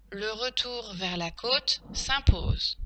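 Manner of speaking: slow, spaced word groups; teacher's careful slow dictation; dictation pace. Shown as a demonstration. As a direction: dictate it slowly for pupils writing. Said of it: "Passons maintenant à la dictée".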